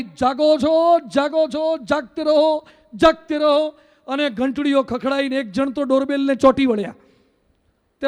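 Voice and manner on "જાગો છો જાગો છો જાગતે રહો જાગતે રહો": louder, higher retold shouts to wake the house; calling out. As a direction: call out as if waking sleepers behind a door. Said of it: "અને બૂમો પાડી". (બૂમો પાડીને જગાડતા)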